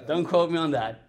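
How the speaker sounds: chuckling through a joking disclaimer; laughing aside. Real, not acted. Preacher tells the congregation with a laugh not to quote him. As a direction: laugh it off as you say it.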